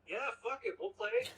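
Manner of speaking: put-on drunken eager yes. Drunk bandmates at a bar eagerly agreeing to play, excited. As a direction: pitch jumping way up, hyped.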